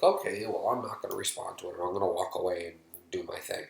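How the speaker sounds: mock-casual, tailing down quickly; breezy dismissal. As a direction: toss it off as if it were easy. Acting out an easy dismissal.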